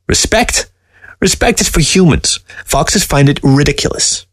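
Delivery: high, mocking talking-fox voice; a scornful dead fox sneering at the man; sly fox voice. Taxidermy fox scoffing at the old man, high and sly.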